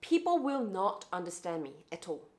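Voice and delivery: slow, careful British-leaning accent; measured, enunciated British-tinged English; well-enunciated British-leaning accent. Shown as a demonstration. Speaker shows how locals won't understand, well-enunciated British-leaning accent. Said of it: "if I speak like this".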